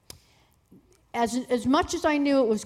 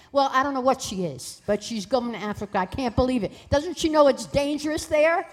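imitated fretting mother, building louder; lightly acted maternal outburst; hysterical mother; 4 semitones higher, 4 dB louder than usual. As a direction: protest in mock disbelief, rising at the end. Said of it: "my mother was hysterical".

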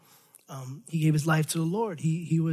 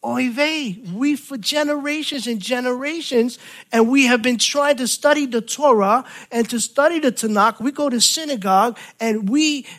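Jewish lament; 7 semitones higher, 5 dB louder than usual. Retold or imitated. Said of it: "they're probably saying".

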